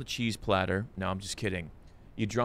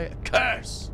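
mock dramatic gasp; 14 semitones higher than usual.

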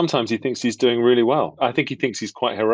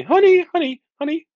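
squeaky and much higher and louder, scared; scared husband; 6 dB louder than usual. Shown as a demonstration. Husband nervously placating his scary wife, very high. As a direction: plead "Honey" in a panicked falsetto. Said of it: "I'm scared of my wife in it".

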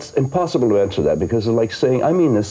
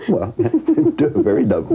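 laughing; 3 semitones higher, much slower than usual. Real, not acted. Laughing at own joke.

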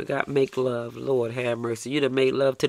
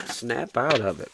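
slower, every word spelled out; slow firm repeat; slower than usual. Shown as a demonstration. Reader repeating the order to a lovesick listener, slow and firm. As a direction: lay it down slowly and firmly.

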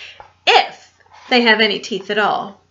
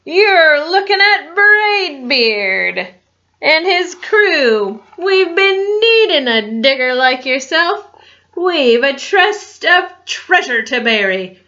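pirate captain; 3 semitones higher, 3 dB louder than usual. Acted. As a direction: boom it like a captain. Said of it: "he said".

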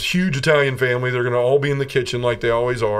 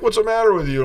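lightly voiced nun; 11 semitones higher than usual. Nun asks him in car.

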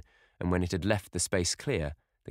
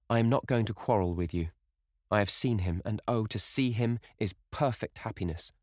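lightly voiced girl, higher and earnest; conciliatory young sister; 3 semitones higher than usual. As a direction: soothe a brother and avoid a quarrel. Sister soothes her angry brother.

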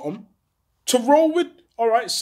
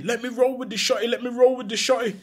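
begging; 5 semitones higher, faster than usual. Retold or imitated. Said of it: "begging me".

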